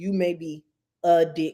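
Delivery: slow, deliberate, word-by-word delivery. Reading out something they wrote to their listeners, said slowly. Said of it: "I'm going to say it slowly".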